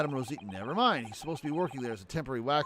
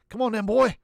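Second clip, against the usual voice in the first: calling a dog; 7 semitones higher, 8 dB louder than usual. Acted.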